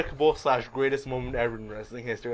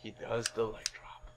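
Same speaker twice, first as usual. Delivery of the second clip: low, very soft delivery; hushed suspense; 7 semitones lower, 17 dB quieter than usual. Acted. Host revealing the betrayal, hushed suspense. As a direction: drop to a hush for the twist.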